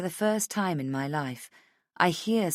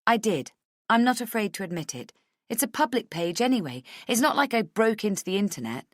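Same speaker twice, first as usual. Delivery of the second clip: higher-pitched, indignant justification; mildly affronted, raised pitch; defensive Rachel; 5 semitones higher, faster than usual. Acted. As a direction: defend yourself briskly. Voices Rachel defending herself.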